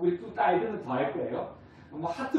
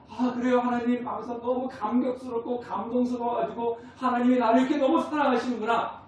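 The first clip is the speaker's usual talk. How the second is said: moved believer; 5 semitones higher than usual. Retold or imitated. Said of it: "이런 마음이 드십니까".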